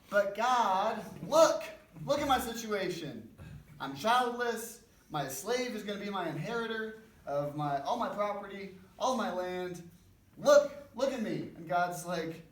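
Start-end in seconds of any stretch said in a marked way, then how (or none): 0.1-11.5 high, loud, desperate plea; pleading Abram. Retold or imitated. Abram begging God to see his childlessness, loud high pleading. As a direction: cry out to God, begging him to look at your situation. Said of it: "I love Abram's response. He says".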